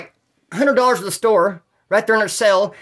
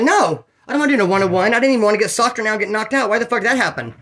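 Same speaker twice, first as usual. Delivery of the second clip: higher-pitched acted protest; indignant refusal; 4 semitones higher than usual. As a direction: object in disbelief at the unfair offer. Richard refuses a fight.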